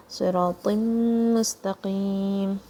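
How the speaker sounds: "صراط مستقيم" with full, heavy s, r and t; heavy letters. Shown as a demonstration. Teacher showing three heavy letters, emphatic consonants in "صراط مستقيم". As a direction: thicken sad, ra and ta in "صراط مستقيم". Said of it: "all three letters are heavy".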